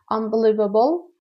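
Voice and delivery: "unbelievable" said slowly and carefully; pronunciation demo. Shown as a demonstration. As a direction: model "unbelievable" for learners.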